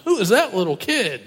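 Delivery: a laugh running through the words; laughing scoff. Pretend. A driver being yelled at by a kid, laughing scoffingly.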